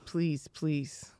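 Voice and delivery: whispered begging, barely voiced; soft desperate please; pleading whisper. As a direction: beg under your breath like a scared kid. Son begging not to wash feet.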